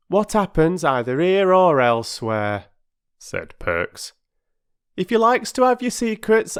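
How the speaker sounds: a proud man nursing a grudge; offended porter. Acted. Perks to the children, huffy and offended.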